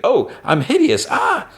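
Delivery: high, shrill gasp of horror at her reflection; mock-horrified squeal ending in a scream; horrified shriek. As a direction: shriek at your own face in the mirror. Character sees reflection, screams.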